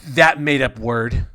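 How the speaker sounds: put-on loud, childlike queen voice, proud of her dragon; simple dwarf queen. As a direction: boast like a dim little queen, loud.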